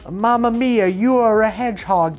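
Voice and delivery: high, loud Italian-ish plumber voice; Mario voice. Acted. YouTuber pitching a parody, hammed-up Mario voice. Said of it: "He says".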